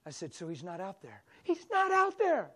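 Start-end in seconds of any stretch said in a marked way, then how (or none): 0.3-1.2 soft, calm question; gentle. Retold or imitated. Pastor gently questioning the upset girl. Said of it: "I stayed gentle and smiled". 1.4-2.5 high, slow cry; screaming. Retold or imitated. Girl screaming back at the pastor. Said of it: "screaming at the pastor".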